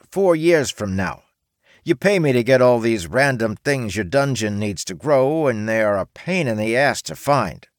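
T talking fast to justify herself; orc woman T explaining. A narrator's reading. T explains her past.

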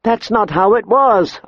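put-on high, upset child's protest; close to tears. A narrator's reading. Girl disputing the queen's account, close to tears. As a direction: object as a girl about to cry. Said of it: "close to tears".

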